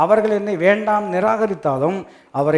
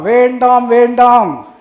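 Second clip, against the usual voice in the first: loud, raised, held-out refusal; emphatic plea; 4 semitones higher, 8 dB louder, much slower than usual. Acted. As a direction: stretch each word and ring it out. Preacher urges weeping woman not to.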